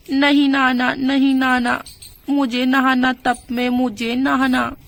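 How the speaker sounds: put-on little boy insisting on the tub; toddler whine. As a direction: whine it like a child who wants the tub. Boy whining about the tub.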